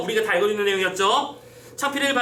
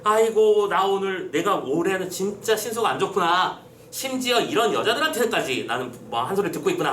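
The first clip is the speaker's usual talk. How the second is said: acted sigh of self-pity, sinking after the opening; self-lament. Teacher reading Bae Bijang's soliloquy, mildly lamenting. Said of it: "자기 스스로 탄식을 하고 있는 거야".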